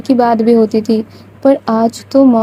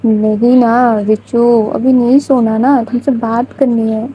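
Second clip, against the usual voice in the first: shy smiling plea; slower than usual. Retold or imitated. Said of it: "مسکراتے مسکراتے اور شرماتے شرماتے".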